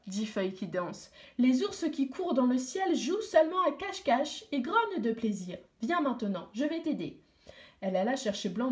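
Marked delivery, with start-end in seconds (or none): 1.4-7.2 lightly voiced girl, higher, soothing; a hint of a kind girl calming the boy; reassuring girl.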